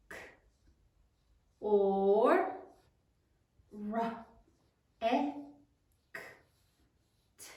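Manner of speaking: "K, or, ra, e, k, t" spaced out as separate sounds; sounding out. Shown as a demonstration. Class says it as they write, "K, or, ra, e, k, t" one sound at a time. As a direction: pause to write after each sound of "K, or, ra, e, k, t". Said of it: "say it as you write it".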